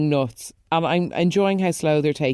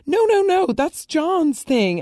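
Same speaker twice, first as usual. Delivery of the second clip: much higher, slow, playful no no no; mock protest; 12 semitones higher, slower than usual. Defending John's surf club role, playfully high protest.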